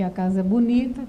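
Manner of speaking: BONITA with a small lift at the end; varied intonation. Shown as a demonstration. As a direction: say BONITA neutrally, ending slightly up. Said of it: "uma entonação, uma emoção".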